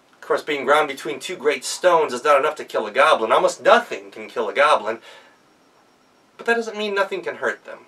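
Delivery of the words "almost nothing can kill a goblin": usual speaking voice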